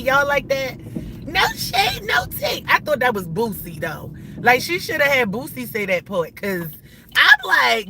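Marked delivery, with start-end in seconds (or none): 1.3-2.6 high, sing-song sass; mock-innocent high no shade; sassy. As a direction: toss it off in a high sassy lilt. Sassy disclaimer.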